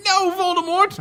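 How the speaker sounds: loud, high defiant cry; high shout back. A narrator's reading. Ebony shouts back as Voldemort orders her to kill, loud high cry. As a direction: shout it right back at him. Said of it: "I shouted back".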